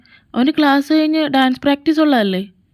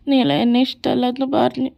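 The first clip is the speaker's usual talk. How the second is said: hammed-up sobbing between words; mock-cry like a rejected suitor; whimpering. Rejected boy sulking alone in a corner, whimpering. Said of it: "അവനാ മൂലക്കിരുന്ന് മോങ്ങുന്നുണ്ട്".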